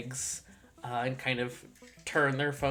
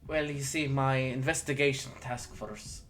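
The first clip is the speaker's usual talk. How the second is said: attempted Irish accent; shaky grasp of an Irish accent; terrible Irish accent; 4 dB louder than usual. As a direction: try an Irish lieutenant, badly. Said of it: "this is already a terrible accent".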